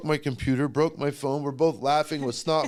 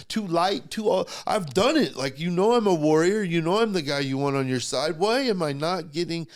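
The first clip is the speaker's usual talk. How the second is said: cussing out God; 4 semitones higher than usual. Retold or imitated. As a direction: start hurt, end yelling up at God. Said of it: "cussing God out".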